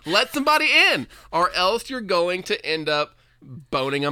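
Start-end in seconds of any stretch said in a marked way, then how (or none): 0.0-1.1 high, loud pleading; raised plea. Acted. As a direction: beg it out, raised. Repeated joking plea.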